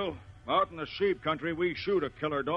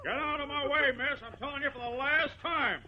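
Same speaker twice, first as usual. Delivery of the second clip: higher, a last hard warning; angry warning; 10 semitones higher than usual. Acted. Rancher gives the pleading girl a final warning, angry. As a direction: warn her off for good.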